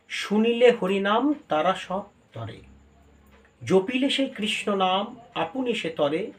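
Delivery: verse recitation. Acted. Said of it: "আমি খুব ভালো করে একটু বুঝিয়ে একটু বলে দিই".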